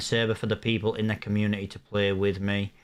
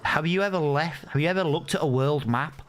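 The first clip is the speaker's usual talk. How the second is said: incredulous; 5 semitones higher than usual. Retold or imitated. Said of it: "I was like".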